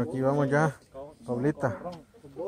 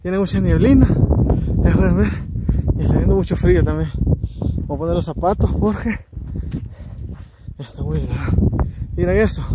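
loud over the wind; 7 semitones higher, 9 dB louder than usual. Real, not acted. Windy cold summit at night.

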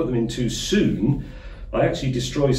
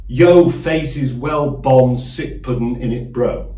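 mock street slang; 3 semitones higher, 4 dB louder, slower than usual. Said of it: "a modern English translation would go something like".

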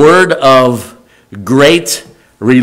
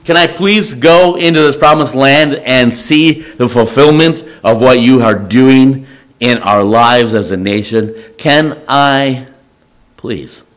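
pleading. Acted. Moses begging to see the promised land, pleading. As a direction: build the plea, pause, then a hushed last word. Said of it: "Moses is basically pleading".

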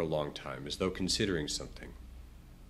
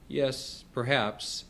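tentative, slightly higher-pitched assent; uncertain; 5 semitones higher, much slower than usual. A narrator's reading. Man answering questions about his family, uncertain. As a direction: agree with mild doubt. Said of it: "again in an uncertain voice".

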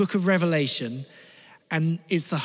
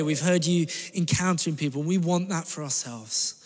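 spoken prayer. Real, not acted. Pastor leads congregation in prayer.

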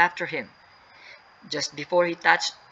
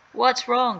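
high, raised-voice question; yelled; 8 semitones higher, 4 dB louder than usual. Acted. James to crying Sally, yelling in concern. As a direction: call it out urgently, pitch high. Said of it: "James yelled".

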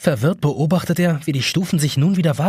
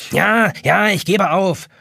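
offhand surrender; 5 semitones higher, slower than usual. A narrator's reading. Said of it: "erwidert die Taschenuhr leichthin".

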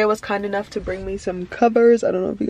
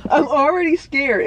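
nervous laugh; 5 semitones higher, slower than usual. Real, not acted. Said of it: "I'm already kinda nervous".

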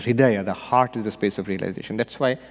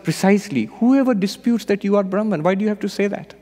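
higher, pointed punchline; triumphant sage; 9 semitones higher than usual. Retold or imitated. Sage turning the point back on the king, pointed. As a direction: land the lesson firmly. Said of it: "And Ashtavakra said".

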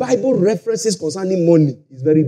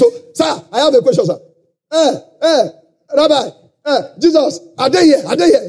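raised, pushy voice calling out sir; eager questioner; 5 semitones higher than usual. Retold or imitated. Preacher mimicking a pushy questioner calling to Jesus. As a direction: play the keen man interrupting the meeting.

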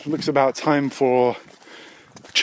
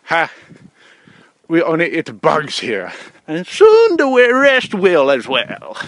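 Chinese caricature building to a high, loud cry; put-on Chinese accent, swelling and drawn out; mock Chinese accent; 5 semitones higher, 7 dB louder, slower than usual. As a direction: start clipped, then stretch out high in a mock Chinese accent. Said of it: "the Chinese are like".

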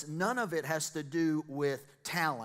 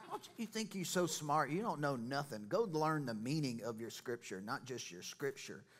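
Jesus; 4 dB quieter than usual. Acted. Preacher acts out rebuking smug scripture experts, mock scolding. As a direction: playfully tell someone off.

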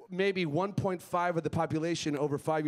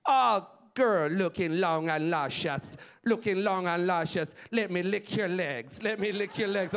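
put-on lusty Jamaican accent; Jamaican catcall. Man showing a female he's interested in her, Jamaican catcall. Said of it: "in Jamaica, licking your legs is a catcall".

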